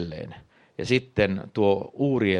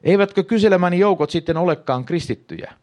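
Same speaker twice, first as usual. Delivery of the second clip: higher and louder, stunned disbelief; astonished question; 10 semitones higher, 6 dB louder than usual. Acted. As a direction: ask it as if your faith just cracked.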